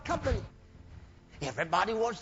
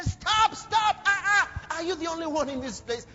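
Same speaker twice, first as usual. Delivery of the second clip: exasperated listeners; 5 semitones higher than usual. Retold or imitated. People telling him stop.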